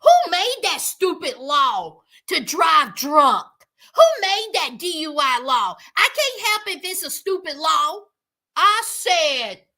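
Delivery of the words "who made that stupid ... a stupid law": indignant, louder protest about a stupid law; mock-defiant complaint; defiant outburst. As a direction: rant like a sulky grown daughter. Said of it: "came out her lips and said".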